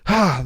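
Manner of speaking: acted sigh at the daily grind; weary sigh. Host evoking the everyday grind of life, weary sigh. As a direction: let out a mock weary "ah".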